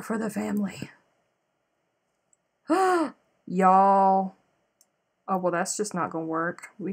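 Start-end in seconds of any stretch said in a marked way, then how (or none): 2.7-4.3 gasping y'all; sudden gasp of shock; surprised gasp. Real, not acted. Gasp at a mistake.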